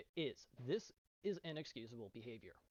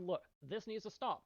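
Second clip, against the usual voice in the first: firm demand; 8 semitones higher, 6 dB louder than usual. Retold or imitated. Firm message to org founder.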